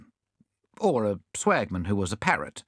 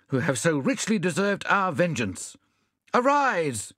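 raised, declaiming rallying call; rousing speech; 6 semitones higher than usual. Acted. Bunyip rousing his despondent friends. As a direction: stir the men to vengeance.

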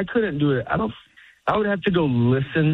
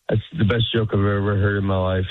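deadpan; 4 semitones lower than usual. Retold or imitated. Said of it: "It sounds like I hate you".

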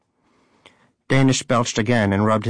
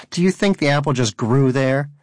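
mock shout; 4 semitones higher than usual. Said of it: "Donut shouted".

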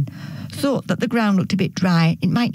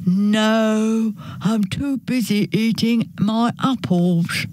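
lightly voiced pig with a drawn-out no; busy pig; 2 semitones higher, slower than usual. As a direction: refuse as a storybook pig.

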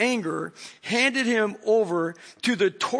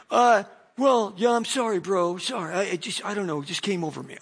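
sheepish apology. Retold or imitated.

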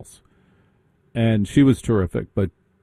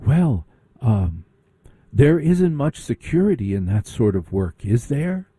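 condescending prep. Retold or imitated. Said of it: "she said".

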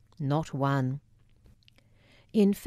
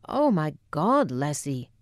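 Scottish exclamation. Retold or imitated. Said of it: "exclaimed Wilma".

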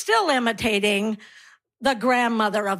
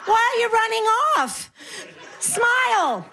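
mock deaf granny; 5 semitones higher than usual. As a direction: play a granny who mishears everything. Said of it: "I pretend I'm deaf".

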